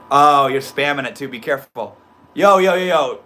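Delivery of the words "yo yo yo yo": excited. Real, not acted. Hyping up the chat.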